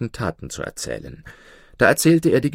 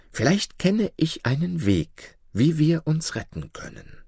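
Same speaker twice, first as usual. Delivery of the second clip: higher, lamenting voice of an enchanted princess; sad owl princess; 7 semitones higher than usual. A narrator's reading. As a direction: tell her sorrow as the owl, pitched up. Eule antwortet dem Kalifen. (höhere, klagende Stimme der verzauberten Prinzessin)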